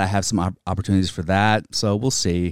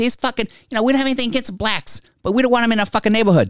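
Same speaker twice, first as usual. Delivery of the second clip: put-on old Boston accent, very high and fast. Mimicking old Southie residents heard in documentaries: imitating 70s Boston accent. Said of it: "they've got like a 70s Boston accent".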